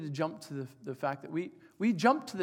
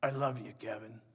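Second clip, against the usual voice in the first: a hint of an older father, slightly lower; dad's voice; 4 semitones lower than usual. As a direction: lightly voice the old dad, tender. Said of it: "I'll try to sound like my dad".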